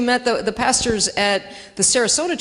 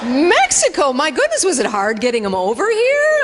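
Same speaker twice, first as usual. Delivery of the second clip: higher, louder astonished stranger; mock astonished woman; 4 semitones higher, 4 dB louder than usual. Stranger asking about the Mexico trip, mock astonished. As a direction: play her wide-eyed amazement. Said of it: "she reacts".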